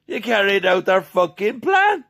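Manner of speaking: full-throated angry roar; furious shout. Real, not acted. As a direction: bellow the accusation at them. Ranting at politicians, shouting.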